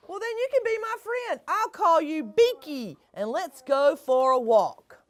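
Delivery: eager frog making a friend; the frog, loud and quick. Acted. Frog offers friendship loudly.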